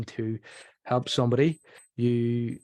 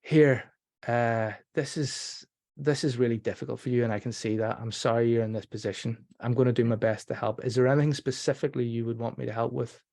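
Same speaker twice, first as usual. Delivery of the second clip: empathetic listening demo. Shown as a demonstration. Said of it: "empathetic listening".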